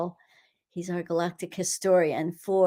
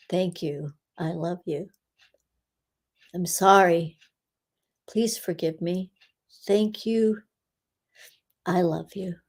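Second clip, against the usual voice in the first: prayer recital. Acted. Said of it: "does it start with".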